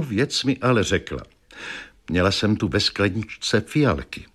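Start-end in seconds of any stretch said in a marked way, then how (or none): none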